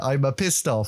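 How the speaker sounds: "I'm a pissed off" in a light mock Italian accent; Italian accent as a playful bit. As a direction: lean into a jokey Italian accent. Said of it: "went really Italian there".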